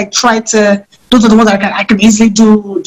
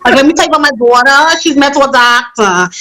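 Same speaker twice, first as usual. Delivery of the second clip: mother character in a put-on accent; Dolores. Shown as a demonstration. Actor showing how another lady talks, put-on accent. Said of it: "she talks like this".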